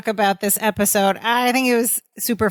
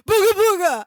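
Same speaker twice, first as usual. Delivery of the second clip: playful spooky shout; 9 semitones higher than usual. Retold or imitated. Vince spooking Balki and Larry from behind, mock-scary shout. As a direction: jump out and spook them. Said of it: "and he goes".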